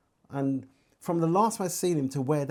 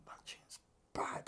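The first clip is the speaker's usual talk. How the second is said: breathy whisper of amazement; whispered awe; 14 dB quieter, slower than usual. Retold or imitated. Hushed whisper telling the producer his tune is great. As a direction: whisper it like it stunned you.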